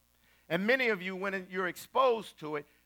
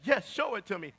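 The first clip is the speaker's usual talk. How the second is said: a hint of an eager client; lightly voiced woman. Woman answers TV host about footage, lightly eager. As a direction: answer promptly, lightly imitating her.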